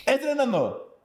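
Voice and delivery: high, repeated fading jingle; mock studio reverb; fake echo. Shown as a demonstration. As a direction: say it as a hammed-up echo. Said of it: "Muéstrale, muéstrale".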